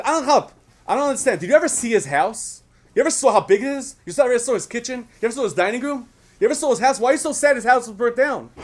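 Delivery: high, loud disbelieving challenge; incredulous man in shul. Acted. Man in shul challenges Yankel over the house, high loud disbelief. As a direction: voice a baffled congregant who can't understand the grief.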